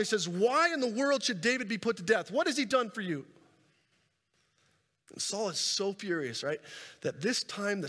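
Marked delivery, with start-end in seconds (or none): 0.3-3.3 raised, higher-pitched protest; mock yell back. Preacher as Jonathan challenging his father, mildly yelled. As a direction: push back indignantly without a full shout. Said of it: "He yells back at his father".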